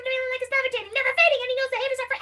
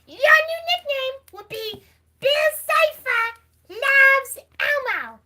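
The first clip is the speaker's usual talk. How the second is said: Elmo voice; much slower than usual. Acted. Elmo voice naming a fan.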